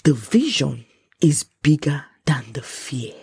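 "vision", "bigger", "fear" each weighted slowly; drawn-out, deliberate stress on "vision"; slow emphasis. Real, not acted. Key line repeated for emphasis.

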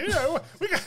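put-on stereotypical Italian accent. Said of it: "Stereotypical Italian".

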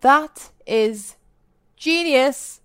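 retold thrill at a great idea; mock wonder at friend's idea; delighted surprise. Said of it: "And I was like".

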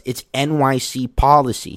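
half-yelled rule-quoting retort; imitated yell back. Gym guy yelling back about masks, toned-down imitated shout. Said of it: "he yells back".

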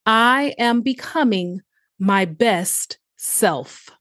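slow, deliberate affirmation; each word set apart, slowly; staccato. Shown as a demonstration. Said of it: "I'll say it one more time".

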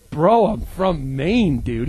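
slow, flat-out unimpressed answer; deadpan retort. Retold or imitated. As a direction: drag it out like it's obvious. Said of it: "I'm like".

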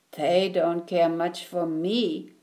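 sad. Acted. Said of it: "said Alexander sadly".

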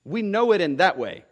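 "know" falling firmly; "We know it" with weight on "know"; emphatic know. Shown as a demonstration. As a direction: stress "know" as certain fact. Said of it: "It's an emphatic kind of way".

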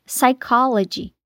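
"psychology" in English, silent P, starting on the S. Shown as a demonstration. Teacher slowly demonstrating the silent P in "psychology". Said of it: "em inglês".

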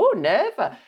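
lightly mocked Welsh accent; Welsh aunt. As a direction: imitate a Welsh auntie refusing. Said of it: "She'll go".

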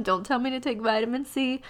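blocked nose from a cold; nasal sick voice. Real, not acted. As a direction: talk through a stuffed-up nose. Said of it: "I'm talking like Nasal McGee over here".

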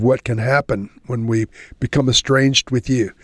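earnest, unhurried prayer voice; closing prayer. Acted. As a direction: lead the listeners into prayer. Pastor closes in prayer.

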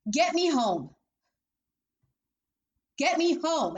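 mother screaming at her friend to drive her home, high and frantic; frantic outburst. Retold or imitated. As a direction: shout it like a mother terrified for her child. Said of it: "I'm like".

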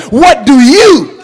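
slow the question right down. Shown as a demonstration. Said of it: "Let me say it again".

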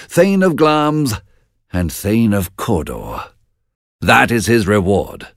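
decide a traitor's fate with authority; lightly voiced king commanding his lord; stern king. King Duncan gives orders.

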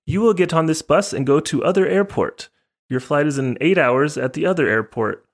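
put-on high, rough take on a Japanese accent; imitated Japanese accent. Airline ladies send passenger to bus, imitated Japanese accent. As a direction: instruct the traveler in a mock Japanese accent. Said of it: "kinda what they sounded like".

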